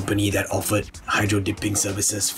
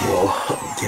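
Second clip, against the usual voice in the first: surprised; 10 semitones higher than usual. Real, not acted. First glowing dart fired.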